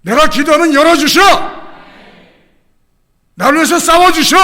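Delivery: loud, high fervent proclamation; preaching at full force. Acted. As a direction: build to a shouting testimony. Climactic sermon proclamation.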